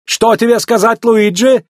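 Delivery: high, excited admiration; pleasantly amazed; impressed. A narrator's reading. McQueen admires his new tires.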